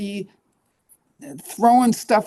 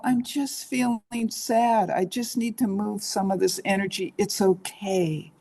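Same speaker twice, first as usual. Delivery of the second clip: soft self-comfort. Shown as a demonstration. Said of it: "you can rock a little bit and go".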